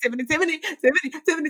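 sing-song self-pity. Retold or imitated. Mocking inner self-pity voice.

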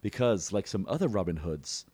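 quietly quoted film retort; Cary Elwes. Retold or imitated. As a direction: drop to a soft aside, lightly playing the hero. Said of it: "Cary Elwes just stares right into the camera and goes".

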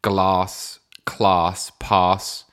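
"Glass, class, pass" with a long British "ah"; British pronunciation. Shown as a demonstration. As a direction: say "Glass, class, pass" as glahss, clahss, pahss. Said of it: "confused by my pronunciation".

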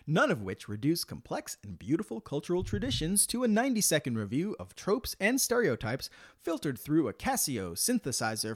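upbeat ad read, salesman voice; infomercial. Acted. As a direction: pitch it like a cheesy TV ad. Sponsor ad read on podcast.

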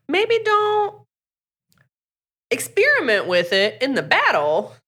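high, careful warning voice; lightly voiced worried mentors; cautious leaders. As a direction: warn her kindly but firmly.

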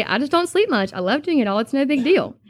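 shrugging it off with a smile; smiling brush-off. Retold or imitated. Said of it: "she would just smile and say".

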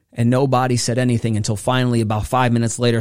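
ordinary talk, nothing marked

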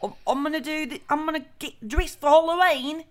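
high-pitched botched Irish, like an English pirate; hammed-up, failing Irish accent; terrible Irish accent. Irish arrivals planning for Halloween, terrible Irish accent. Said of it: "I can't do the Irish accent".

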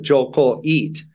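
"Koy" said as "Koh", then "eat"; two words separated. Shown as a demonstration. Nephew working out what he misheard, "Koy" as "Koh". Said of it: "I never put".

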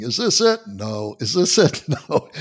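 lightly voiced guessing game, laughing at the end; blind man guessing. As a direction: play the clip with a chuckle. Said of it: "the guy is saying".

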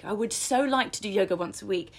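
slightly lifted, yearning demo; wishy-washy aspiration, leaning on "so"; wishful, not solid. Shown as a demonstration. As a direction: say it as a mere wish. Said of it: "It projects something that isn't quite solid".

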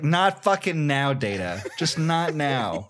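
slow, weary, fed-up rebuff; exasperated snap. Acted. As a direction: brush him off, done with him. Crew snaps at Data, acted.

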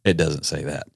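high, formal news anchor read; newscaster voice. Shown as a demonstration. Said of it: "I'm gonna read it in my best newscaster voice".

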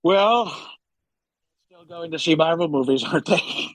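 lightly voiced boastful president impression; Donald Trump. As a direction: play a rambling, self-congratulating president. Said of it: "back to Trump".

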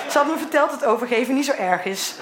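talking through real laughter; laughing. Real, not acted. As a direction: explain yourself while giggling. Laughs while explaining herself. (al lachend praten)

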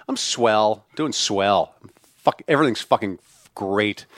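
low, deadpan ironic swell; a hint of sarcastic cheer. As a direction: say swell with a tinge of irony. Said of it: "a tinge of irony to it".

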